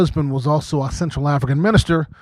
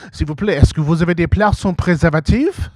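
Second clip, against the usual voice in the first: French. Shown as a demonstration. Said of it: "if you say that in French".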